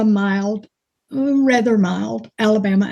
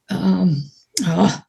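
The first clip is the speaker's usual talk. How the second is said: whisper; 2 semitones lower than usual. Real, not acted. Groping for a word.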